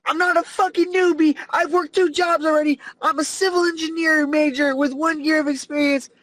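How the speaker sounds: mock a coworker insisting on their credentials; imitated rant. Fed-up coworker defending herself to the others, imitated ranting. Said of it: "ranting like".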